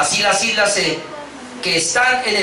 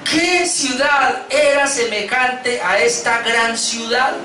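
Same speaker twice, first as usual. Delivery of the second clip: lamenting cry; 4 semitones higher, much slower than usual. Acted. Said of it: "dieron voces diciendo".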